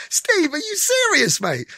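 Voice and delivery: high, slow call down to the street; calling out of window. Retold or imitated. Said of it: "me out of my window down to him on the street".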